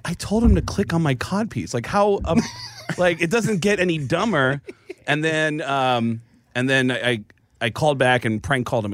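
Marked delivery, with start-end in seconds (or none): 0.0-4.6 laughing, raised disbelief; amused. Retold or imitated. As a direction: tell it while cracking up. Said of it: "I was like".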